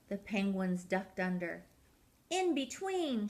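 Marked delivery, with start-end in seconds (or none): 2.3-3.3 higher call of in between; coach's shout. Acted. Coach Peg calls the penguins through the flags. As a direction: steer them through the flags. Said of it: "shouted Peg".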